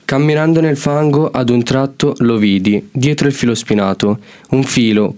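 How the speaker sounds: measured, even verse reading; steady narrative verse with falling line ends; poem recitation. Acted. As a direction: recite your own poem phrase by phrase. Student reads his poem.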